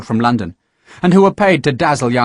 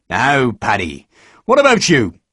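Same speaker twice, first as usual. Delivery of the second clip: a hint of a genial recruiting sergeant; coaxing sergeant. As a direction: draw him out, friendly but pressing.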